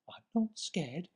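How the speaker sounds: not scared. Acted. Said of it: "said the Gruffalo's child".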